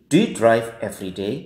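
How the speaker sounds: yes-no tune with "day" rising; rising question intonation. Shown as a demonstration. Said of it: "itu pasti intonasinya naik".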